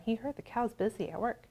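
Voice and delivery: plain reading voice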